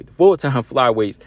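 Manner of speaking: laughing emphasis. Shown as a demonstration. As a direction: repeat it with a chuckle, stressing "full-time".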